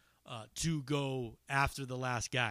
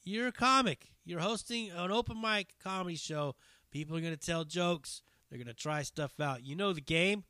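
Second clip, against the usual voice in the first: reasoning with him; 6 semitones higher than usual. Retold or imitated. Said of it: "I was like".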